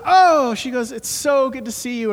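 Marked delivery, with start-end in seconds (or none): 0.0-0.6 bright Irish "Oh" thrown high and loud; Irish lady's delighted "Oh"; Irish brogue. Retold or imitated. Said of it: "in her thick Irish brogue". 0.9-2.1 higher Irish lilt; light Irish brogue greeting. Retold or imitated. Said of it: "in her thick Irish brogue".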